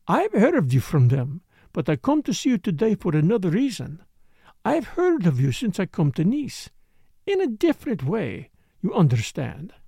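lightly voiced dancer with an accent; insistent foreign dancer. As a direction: play the accented dancer, a little pointed.

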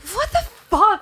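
high, drawn-out indignant protest; retold outrage. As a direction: replay stunned indignation at the boss. Retelling outrage at being suspended.

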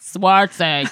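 robot voice. Pretend. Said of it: "in the robot voice".

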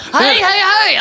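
high, drawn-out heys; barging-in call. Acted. Interrupting the hot dog sleeve talk, barging-in call. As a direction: butt in high and slow.

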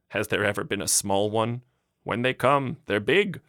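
wife mocking the mayor's warning; scornful retort. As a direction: scoff him down.

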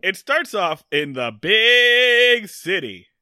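slow, booming trailer narrator; movie trailer voice. Pretend. Opening a recap to his co-host, in a slow booming trailer voice. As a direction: announce it like a film trailer. Dramatic trailer-style opener.

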